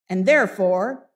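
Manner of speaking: loud "therefore" held for suspense; mock threatening build-up. Scrooge keeps Bob in suspense, loud and mock threatening. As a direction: let "therefore" hang like a threat.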